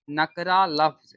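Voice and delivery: slow, spelled-out dictation pace. Shown as a demonstration. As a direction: say "नकरा लफ्ज" slowly, as if writing it on the board. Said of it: "सबसे पहले ना इसको हम लोग लिखेंगे".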